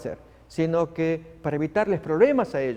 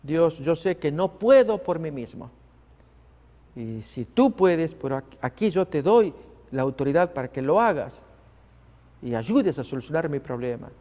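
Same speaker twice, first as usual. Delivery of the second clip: prayer. Shown as a demonstration. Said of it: "podemos orar de esa manera".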